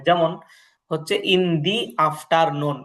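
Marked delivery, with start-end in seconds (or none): 1.3-2.8 slowly sounded "the" as "dee" before afternoon; "the" with an ee vowel. Shown as a demonstration. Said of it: "দাটা দি উচ্চারণ হবে".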